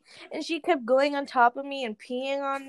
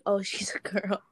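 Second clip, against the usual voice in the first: whispered vet line; whispered quote; 3 semitones lower, 5 dB quieter than usual. Retold or imitated. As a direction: whisper the vet's verdict. Quoting the vet.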